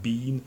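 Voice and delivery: "bean" long E; not the American way; British been. Shown as a demonstration. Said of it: "not like in Great Britain".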